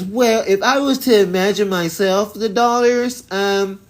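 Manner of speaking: high, prim, hammed-up historian voice; mocking the documentary lady. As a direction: parody a pompous expert making it up as she goes. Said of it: "this crazy Y T lady".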